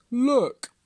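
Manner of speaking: one firm, projected word; patient tortoise. A narrator's reading. Tortoise answers Hare's mockery.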